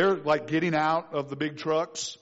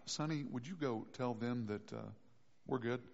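much softer, lower aside to son; hushed homeowner; 8 semitones lower, 15 dB quieter than usual. Pretend. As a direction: hide inside and murmur to the kid.

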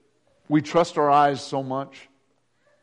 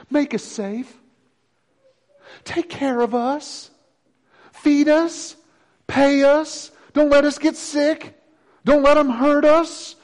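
mocking whine, higher; whiny citizens; 10 semitones higher, slower than usual. Preacher mocking Americans who want to be looked after, in a higher, whiny voice. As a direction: sneer at people begging to be kept safe.

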